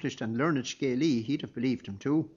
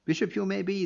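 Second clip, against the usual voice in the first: angry abbot; 7 semitones higher than usual. A narrator's reading. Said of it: "the abbot continued".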